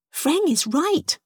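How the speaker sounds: put-on high, slow childlike voice; child creature. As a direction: voice a young creature, drawn out. Young jellyfish child voiced in story.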